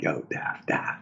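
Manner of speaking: hushed unvoiced yo da da; soft secret whisper. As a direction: whisper it to nudge a neighbour. Nudging coworker secretly.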